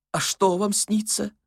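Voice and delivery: put-on high, plaintive old man's voice; inquisitive old man. A narrator's reading. Old man asking about dreams, high pleading curiosity. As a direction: ask high and eagerly.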